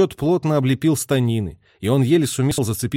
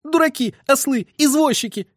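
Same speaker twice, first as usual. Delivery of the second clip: tearful shouting; 14 semitones higher than usual. A narrator's reading. Messenger yelling at drivers, tearful shout. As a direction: shout close to crying. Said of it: "едва не плача кричал Скляр".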